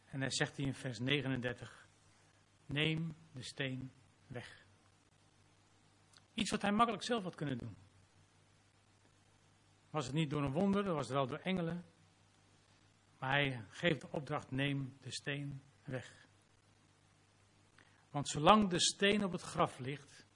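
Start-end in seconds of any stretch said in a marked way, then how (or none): 2.7-4.7 slow, weighty command; solemn slow order. Acted. Command quoted slowly in sermon. 14.5-16.3 slow, weighty command; solemn slow order. Acted. Command quoted again slowly.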